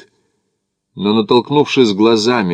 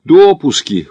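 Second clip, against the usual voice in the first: higher, louder, cheerful chime-in; smiling reply; 6 semitones higher, 7 dB louder, slower than usual. A narrator's reading. Smith smiles back adding to the list, cheerful. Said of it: "улыбнулся в ответ Смит".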